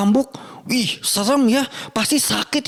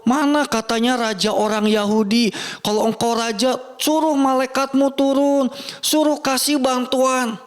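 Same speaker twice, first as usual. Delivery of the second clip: higher-pitched taunting challenge; acted mockery; 6 semitones higher than usual. Crowd challenging Jesus to call his angels, mocking. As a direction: taunt as if daring a false king. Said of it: "Tuhan Yesus diolok-olok".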